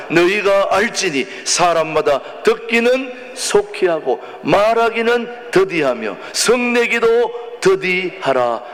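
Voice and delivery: measured congregational Bible recitation; drawn-out phrases, slowing toward the end; scripture reading. Acted. Leads scripture reading aloud.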